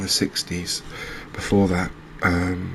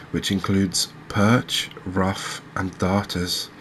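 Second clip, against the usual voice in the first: reading aloud. Acted. Angler reading a fish fact sheet to viewers, reading aloud. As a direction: read it out evenly, phrase by phrase. Reads out an encyclopedia entry.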